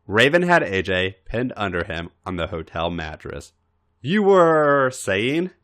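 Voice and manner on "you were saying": slow, easy and unhurried; a lightly voiced calm nudge; calm prompt. A narrator's reading. Raven pinning A J, prompting him calmly. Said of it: "Raven prompted calmly".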